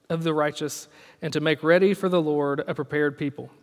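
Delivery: measured, even Bible reading; solemn scripture reading from the pulpit. Acted. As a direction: read the verses out steadily. Reads scripture aloud.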